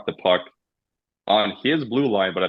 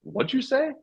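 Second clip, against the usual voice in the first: retold challenge; 4 dB quieter than usual. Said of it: "I turn, I go".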